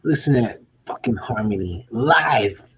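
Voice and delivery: slow, choked-up awe at the harmony; moved, near tears. Real, not acted. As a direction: let the voice catch, moved. Moved by the music.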